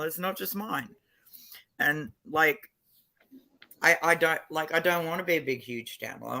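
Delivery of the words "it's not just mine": whisper. Real, not acted. Aside to stream viewers.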